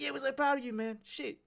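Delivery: very high mocking bro voice; fake proud mates. Mates faking pride for a free ride, very high mock voice. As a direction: squeak out hollow praise.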